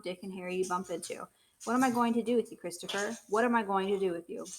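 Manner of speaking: loud, furious scolding father; angry tirade. Acted. Father rants at Christopher for prying into others' business, loud fury.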